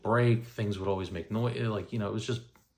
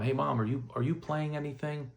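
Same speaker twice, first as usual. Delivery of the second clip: lightly acted, higher-pitched query; retold question to mom; 6 semitones higher than usual. Asking mom in the kitchen, retold higher-pitched question. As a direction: raise the pitch as if checking with someone in another room.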